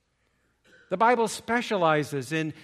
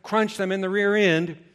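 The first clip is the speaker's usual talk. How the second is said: paranoid chatter; 4 semitones higher, 5 dB louder, faster than usual. Retold or imitated. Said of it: "exhibiting all of her paranoia by saying".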